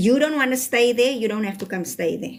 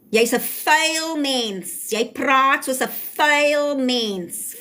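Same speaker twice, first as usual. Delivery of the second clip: higher, very slow, drawn-out rebuke; indignant scolding; 5 semitones higher, much slower than usual. Real, not acted. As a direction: scold them, dragging out each insult. Scolding a viewer for dirty talk.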